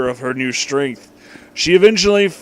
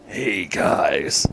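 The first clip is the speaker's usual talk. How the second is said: much lower, menacing villain greeting; evil voice; 11 semitones lower than usual. Acted. Villain greets the heroes in a low evil voice. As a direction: drop low like a cartoon bad guy. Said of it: "said an evil voice".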